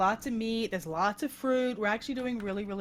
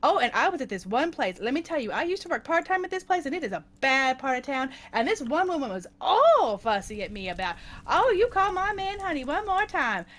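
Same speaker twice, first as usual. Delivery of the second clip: lively imitated Boston waitress rant; Boston accent; 3 semitones higher, 3 dB louder than usual. Waitress ranting about an old job, mock Boston accent. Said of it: "in her heavy Boston accent".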